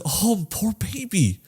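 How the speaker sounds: slow, soft, pitying coo. Retold or imitated. Viewer pitying the dog, slow soft coo. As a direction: coo over a helpless pet, softly.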